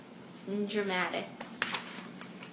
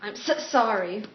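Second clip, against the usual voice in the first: lightly acted apology that sticks on "so"; reluctant apology; 4 dB louder than usual. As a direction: catch on the s of "so" before "sorry". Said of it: "she doesn't apologize to people that easily".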